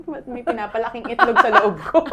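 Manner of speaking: wife laughing at her own body; amused disbelief. Real, not acted.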